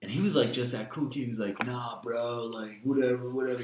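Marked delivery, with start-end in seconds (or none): 1.7-3.6 lazy, raspy and careless. Retold or imitated. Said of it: "He had that raspy voice".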